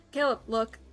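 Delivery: alarmed call. Acted. Soldier alerts his squad.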